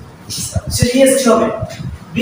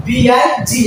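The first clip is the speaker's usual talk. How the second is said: spelled out slowly; much slower than usual. Shown as a demonstration. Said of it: "spelling out the word".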